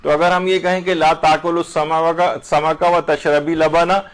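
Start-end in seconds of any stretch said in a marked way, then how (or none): 0.9-4.0 slow, تشربی with ی ending; grammar demo. Shown as a demonstration. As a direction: read تشربی لبنا deliberately. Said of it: "تو اس کا معنی ہے کہ دونوں چیزیں منع ہیں". (آہستہ، تشربی پر زور)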